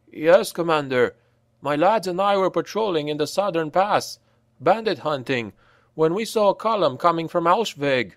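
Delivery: lightly voiced soldier reporting; lancer's report.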